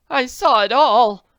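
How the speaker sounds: high, loud slow exclaim; excited cry. Acted. Witness to the crash cries out. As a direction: cry it out in shock. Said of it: "Missus Potter cried".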